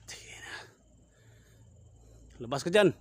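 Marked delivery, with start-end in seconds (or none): 2.4-2.9 loud, higher call into the dark; challenging shout. Real, not acted. Ghost hunter shouting at the aswang to come out. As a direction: order the creature out.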